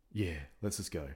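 hushed, low aside, still voiced; whispering. Two boys agree to leave the cinema, whispering. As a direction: keep it down, just between two friends. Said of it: "so I'm whispering".

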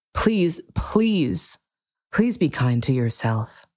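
tender plea; pleading whisper. Real, not acted. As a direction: plead gently with the listener.

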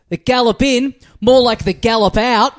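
zinger. Retold or imitated. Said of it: "Just fucking zings her".

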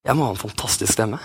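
said through a laugh. Real, not acted. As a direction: laugh at yourself. Joking about own singing.

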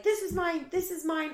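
high-pitched mock wail, no real tears; retold crying. Roommate claiming her belongings, mock crying. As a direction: imitate a tearful, possessive whine. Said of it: "starts crying".

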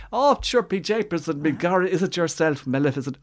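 hammed-up stage-Irish accent, high and loud; mock a cringeworthy film-star Irish accent; Hollywood Irish accent. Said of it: "one of those Hollywood Irish, Irish accents".

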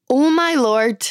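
ordinary talk

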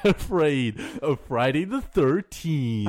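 hammed-up countdown narrator with swooping pitch; Watch Mojo. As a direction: parody a list-video host, big rises and drops. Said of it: "Do you like my Watch Mojo voice?".

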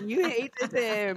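loud, high, drawn-out accusation; mock outraged realisation. Reacting to the host's insult, scandalised. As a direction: crow it slowly in scandalised delight.

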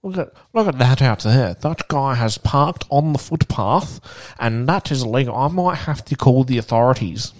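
a hint of a fussy old man calling out; mock loud old man. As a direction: play the nosy old bloke announcing it to the room. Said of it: "Like, top of his voice".

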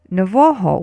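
"novoho" said clearly as no-VO-ho; word demo. Shown as a demonstration. Teacher introduces the second word, "novoho" clear as no-VO-ho. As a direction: present "novoho" firmly with the middle syllable leaning. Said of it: "the second word now is".

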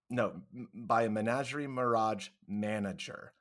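getting the tongue twister out, step by step; careful tongue twister. Real, not acted. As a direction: pick through each word of the twister. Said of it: "oh, this is so hard".

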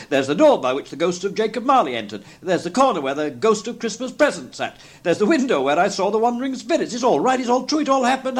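rising steadily to a high, elated pitch; Scrooge, excited cry. A narrator's reading. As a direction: build from eager to ecstatic. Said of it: "cried Scrooge".

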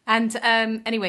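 ordinary talk, nothing marked

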